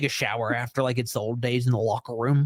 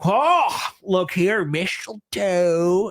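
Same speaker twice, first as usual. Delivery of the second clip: mock excited dad; 3 semitones higher, much slower than usual. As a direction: stretch mistletoe out playfully. Voicing Cody, drawn out.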